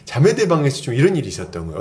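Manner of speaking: ordinary talk, nothing marked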